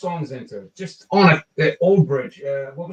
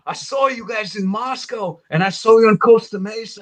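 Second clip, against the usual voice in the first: higher, starstruck fanboy babble; starstruck fan gushing; 7 semitones higher, 8 dB louder than usual. Retold or imitated. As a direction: gush at your idol, tongue-tied. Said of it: "I was like".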